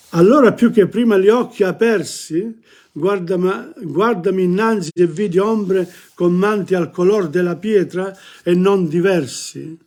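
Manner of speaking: Italian verse read aloud, lifted opening; poetry recitation. Acted.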